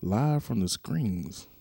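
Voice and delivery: slow, drawn-out mock of the misspoken title; mocking wrong name. Host mocks his own slip of Pat's podcast name, slow and drawn out. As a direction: stretch the botched name out slowly. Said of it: "This nigga said".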